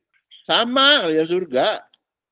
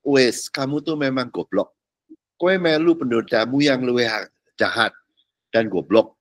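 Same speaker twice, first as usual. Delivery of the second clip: blunt scolding; 5 semitones lower than usual. Acted. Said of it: "jadi kasarnya gini".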